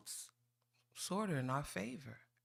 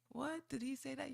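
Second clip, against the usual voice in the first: mock shock; 8 semitones higher, 3 dB quieter than usual. Real, not acted. Mock disbelief at council.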